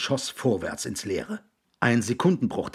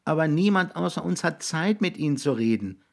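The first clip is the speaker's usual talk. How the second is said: put-on higher-pitched voice of a boy; earnest boy; 8 semitones higher than usual. Jix explains to William why they watch him, earnest boy.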